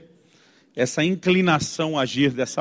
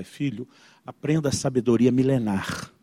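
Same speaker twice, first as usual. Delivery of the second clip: slow, lower fatherly counsel; mock-solemn advice; 5 semitones lower, 5 dB quieter than usual. Father passing wisdom to his son, mock-solemn. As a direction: slowly intone it like ancient wisdom.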